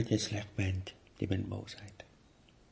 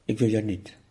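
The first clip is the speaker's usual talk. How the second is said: louder, firm "Ik wil jou niet" with a falling "wil"; firm refusal; 5 dB louder than usual. Shown as a demonstration. The teacher shows students how to reject anger, with a firm, louder "Ik wil jou niet". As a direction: push "Ik wil jou niet" away firmly, stress on "wil". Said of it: "Zeg dat nou eens".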